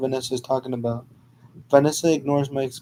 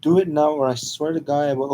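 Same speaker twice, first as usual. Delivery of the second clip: scream; faster than usual. Acted. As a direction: yell it at the driver, furious. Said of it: "Vanessa gets annoyed and begins to scream".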